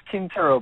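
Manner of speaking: Quintero with a plain K sound at the start; Quintero pronounced Kin-tero. Shown as a demonstration. Guest confirming the host says his surname right, Quintero pronounced Kin-tero. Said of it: "you're pronouncing it right".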